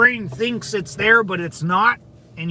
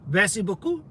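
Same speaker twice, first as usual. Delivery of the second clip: French accent. Shown as a demonstration. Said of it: "Do your best French accent".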